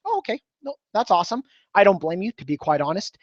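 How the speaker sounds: relaxed agreeing. Shown as a demonstration.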